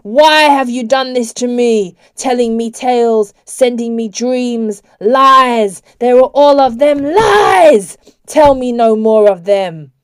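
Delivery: furious, anguished outburst; roaring, trembling. A narrator's reading. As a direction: roar the accusations in a rising voice. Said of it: "His voice rose and trembled".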